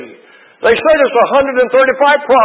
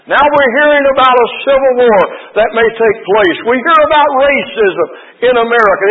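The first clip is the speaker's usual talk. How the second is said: preaching. Acted. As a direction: build it like a revival sermon. Preaching the sermon's main point.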